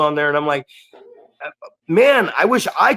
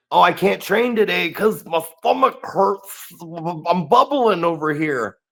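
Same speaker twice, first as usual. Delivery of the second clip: whiny excuse; 3 semitones higher than usual. Retold or imitated. Mocking a trainee's excuse for skipping training, whiny. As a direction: imitate a feeble excuse-maker, stretching the complaint slowly. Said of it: "they come up with an excuse".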